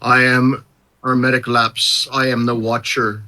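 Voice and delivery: lightly voiced all-seeing watcher; solemn Watcher figure. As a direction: intone it like a grave cosmic observer.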